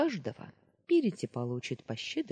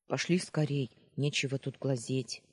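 impatient. Acted. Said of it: "нетерпеливо сказал".

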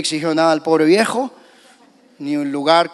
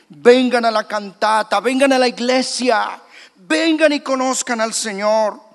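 calling out invitation; 5 semitones higher than usual. Retold or imitated. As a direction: call them in like a street preacher. Believers calling people to church.

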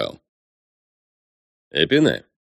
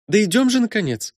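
high, impatient call; impatient princess; 14 semitones higher than usual. Acted. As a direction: hurry him up, exasperated. Matilda dragging him off.

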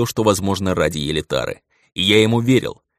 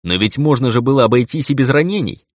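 higher, louder reproach; reproachful remark; 6 semitones higher, 5 dB louder than usual. A narrator's reading. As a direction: chide him for the wound. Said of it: "осуждающе заметил я".

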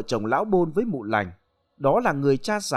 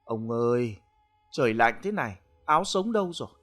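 coaxing. Acted. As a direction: coax him to bed tenderly. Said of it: "nói bằng cái giọng dỗ dành". (giọng dỗ dành nhẹ nhàng)

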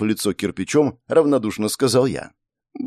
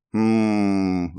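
thoughtful hum. A narrator's reading. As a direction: hum while thinking. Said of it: "промычала она".

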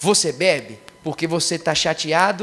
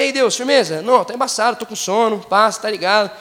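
casual retold prayer; 4 dB louder than usual. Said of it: "Eu aqui, ó, saí de casa".

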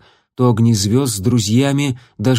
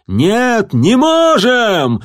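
frantic high-pitched screech; shrill screech; 11 semitones higher, 5 dB louder, much slower than usual. Acted. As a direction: shriek it out in frenzy. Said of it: "истошно заверещал Частокол".

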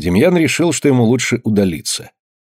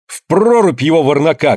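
Anna urging the women on, angry higher shout; 5 semitones higher than usual. A narrator's reading. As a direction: call for him to be thrown in. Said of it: "крикнула Анна".

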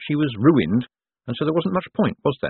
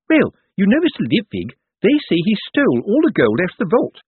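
high, louder, eager gossip; gossiping nurse; 10 semitones higher, 5 dB louder than usual. A narrator's reading. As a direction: relish every rumour.

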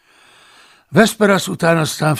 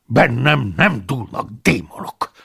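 indignant; 4 dB louder than usual. Acted. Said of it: "dobbantott felháborodva".

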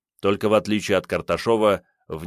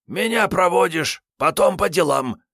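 high, flat-out demand; categorical; 10 semitones higher, 4 dB louder than usual. Acted. Kiryay ordering Sergey to escort him, categorical. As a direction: allow no argument. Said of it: "безапелляционно заявил Киряй".

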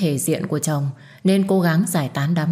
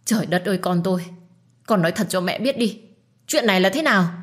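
tearful; 3 semitones higher than usual. Acted. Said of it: "bà bật khóc".

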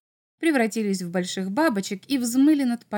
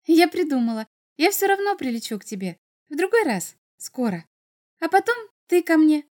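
lightly voiced little girl, often pitched up; bird girl, eager. Bird girl telling Maxim how to visit, lightly voiced and eager. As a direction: reassure a friend with a new idea, lightly girlish.

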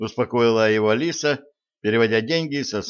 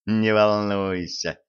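smug reassuring; 2 semitones lower, slower than usual. Acted. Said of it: "расплылся Сплинтер".

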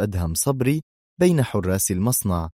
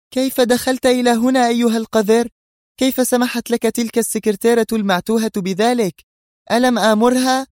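much higher, louder furious shout; shouting angrily; 6 dB louder than usual. A narrator's reading. Sonia yelling at the rude guard, furious high shout. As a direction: scream at the intruding guard. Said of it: "فصاحت سونيا في وجهه".

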